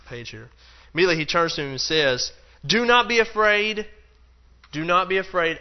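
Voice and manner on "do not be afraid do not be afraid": commanding reassurance. Acted. Acting Jesus's command.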